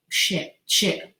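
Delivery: hushed shocked swearing; whispered curse. Retold or imitated. Recalling the jolt to Angela, whispered swearing. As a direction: breathe the curse out unvoiced.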